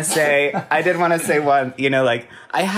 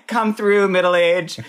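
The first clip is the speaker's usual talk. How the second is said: hyped cheer; 7 semitones higher, 3 dB louder than usual. Retold or imitated. Acted reaction after laughing.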